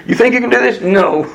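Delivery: high incredulous question, then firm denial; mocking challenge. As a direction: challenge their pride, then knock it down. Voices God challenging human pride.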